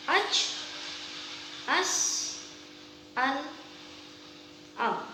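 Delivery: each syllable crisp and separate; articulation drill. Shown as a demonstration. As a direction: spit out ab, ad, auk one by one. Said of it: "Latihannya bisa dengan". (latihan artikulasi yang jelas)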